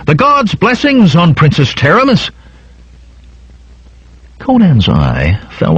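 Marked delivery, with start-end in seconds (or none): 0.1-2.3 high, strained cheer from an onlooker; high mock shout held back in volume; crowd acclamation shout. A narrator's reading. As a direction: hail a princess in a high-pitched cry. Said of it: "scattered shouts rose of".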